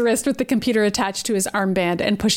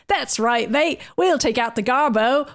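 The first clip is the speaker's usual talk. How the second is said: put-on Australian accent; 2 semitones higher, slower than usual. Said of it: "Australian accent".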